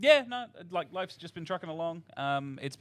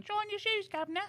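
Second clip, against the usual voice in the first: much higher mock Cockney chimney sweep; Cockney accent. Guest mocks Cockney in a squeaky voice. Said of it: "Don't you mean".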